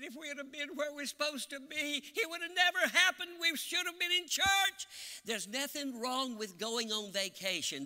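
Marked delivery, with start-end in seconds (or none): 0.0-4.9 high cry building louder; retold weeping, climbing to a loud cry; imitated weeping. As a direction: act out a widow's rising wail of regret. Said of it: "as she wept".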